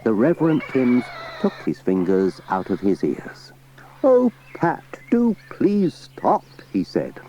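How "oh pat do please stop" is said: high, begging whisper; pained pleading. Acted. Vicar begs Pat to stop playing, pained whisper. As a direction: beg him to stop the noise. Pleading after awful violin.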